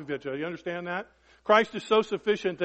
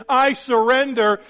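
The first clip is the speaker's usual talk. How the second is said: pleading surrender; 6 semitones higher, 8 dB louder, slower than usual. Acted. Voicing a believer surrendering to God.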